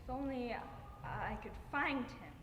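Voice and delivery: halting, restrained wish; a subdued, aching wish. Acted. Grieving mother's monologue, first wish.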